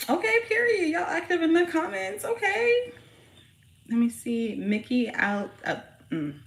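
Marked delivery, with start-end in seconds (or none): 0.1-2.9 high, bright excited squeal. Real, not acted. Reacting to active viewers, high excited squeal. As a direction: hype up the chat.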